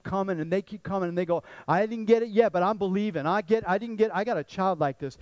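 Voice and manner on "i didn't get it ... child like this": louder, insistent mock pleading; persistent pestering. Imitating a child who keeps coming back asking, persistent. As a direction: keep pushing, mildly acted nagging. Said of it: "He is so persistent".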